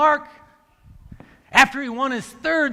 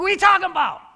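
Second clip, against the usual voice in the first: shocked disbelief; 7 semitones higher, 4 dB louder, faster than usual. Retold or imitated. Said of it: "I go".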